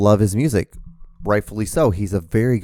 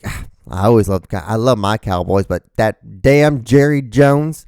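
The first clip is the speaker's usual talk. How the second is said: mock Texan gripe; 5 dB louder than usual. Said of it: "He's like".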